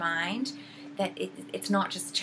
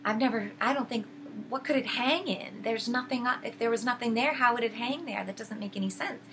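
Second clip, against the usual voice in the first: imitating a calm witch, pitched higher; lightly acted polite doubt, lifting in pitch; nice, calm questioning; 4 semitones higher than usual. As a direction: question sweetly, as if merely puzzled. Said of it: "all very nice, but keeps questioning about it".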